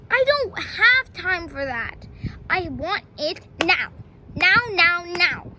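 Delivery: loud insistent now now now; growing mock impatience; impatient demand. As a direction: stamp your foot for it now. Petey impatient with slow clone.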